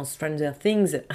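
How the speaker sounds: English words with a French accent. Real, not acted. Naming her favourite series, French-accented English. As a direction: pronounce the English title the French way. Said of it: "mon accent, je suis désolée".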